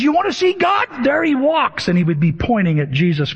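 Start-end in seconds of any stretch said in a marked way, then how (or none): 0.0-1.9 much higher Irish-lilted question and point; Irish-accent impression, pitched up. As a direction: quote the Irish preacher pointing out Jesus. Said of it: "in his Irish accent going".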